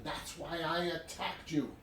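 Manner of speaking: mildly frantic mock confession; freaking out. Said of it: "the guy freaking out and saying".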